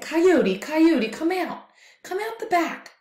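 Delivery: high, pleading cry; desperate monster. Acted. Desperate monster pleads with Coyote, high and begging. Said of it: "he was getting desperate".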